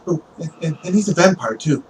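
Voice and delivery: put-on eager, stammering young witness; overexaggerating boy. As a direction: blurt an embellishment nervously. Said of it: "you think that he's overexaggerating".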